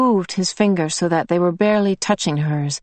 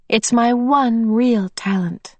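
whispered confession; 4 semitones higher than usual. Acted. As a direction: breathe it like a secret. Confiding softly.

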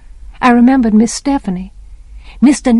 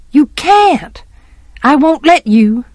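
put-on high, louder child's protest; alarmed protest; 6 semitones higher, 4 dB louder than usual. A narrator's reading. Child trying to stop Jem leaving, alarmed protest. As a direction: protest urgently, pitched up.

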